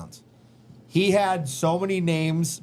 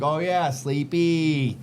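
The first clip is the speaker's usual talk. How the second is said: sing-song voice; much slower than usual. Retold or imitated. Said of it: "talk in a sing-song voice".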